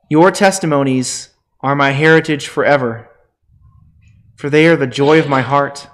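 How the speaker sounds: solemn, measured Bible reading; scripture reading. Acted. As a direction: read the psalm aloud with reverence. Scripture reading before sermon.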